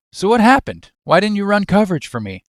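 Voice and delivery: high, quick accusing questions; upset demand. Acted. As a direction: confront your mate, pitch jumping up. Wilson confronts Steve, upset.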